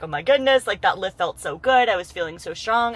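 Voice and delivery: a lightly acted burst of gym excitement; mock excited gushing. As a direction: gush about a great lift in a playful self-imitation. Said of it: "I'm usually like".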